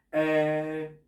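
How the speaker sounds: "Eh" as a thinking sound, flat and held; a pondering eh; hesitation eh. Shown as a demonstration. Teacher showing the Ä as a thinking eh.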